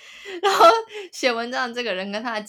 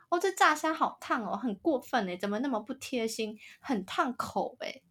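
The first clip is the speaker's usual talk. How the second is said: a hint of a pouty diner whining; mock whiny girlfriend; 4 semitones higher than usual. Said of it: "我刚刚为什么要学她讲话".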